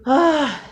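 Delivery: loud, high sighed "ah"; big sigh. Real, not acted. Vlogger steeling herself for a hard day's update, big sigh. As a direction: let out a heavy, high sigh. Sighs before opening up about bad day.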